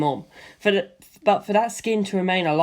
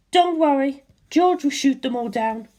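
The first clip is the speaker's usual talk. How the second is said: a raised, cool and thoughtful woman's voice; Lisa Lisa's voice; 8 semitones higher than usual. A narrator's reading. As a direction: voice the calm Hamon master, puzzling it out. Lisa Lisa, unsmiling.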